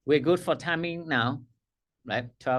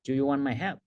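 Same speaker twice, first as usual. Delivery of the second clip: strong but respectful; 3 semitones lower, faster than usual. Shown as a demonstration. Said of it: "In a manner strong but respectful".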